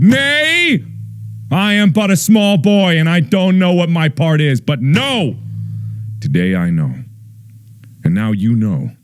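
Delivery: high mock little boy voice, then settling back down; small boy. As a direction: squeak it out like a timid small boy. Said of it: "And I said".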